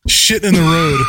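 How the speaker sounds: hammed-up Indian-accented punchline; mock Indian accent. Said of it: "in a very thick Indian accent".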